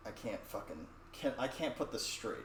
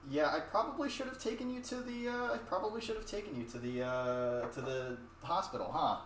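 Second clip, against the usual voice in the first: much higher, sheepish mock mom; 4 semitones higher than usual. Mom realising too late she needed the hospital, sheepish and higher. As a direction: admit it lightly, a bit embarrassed. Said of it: "and goes".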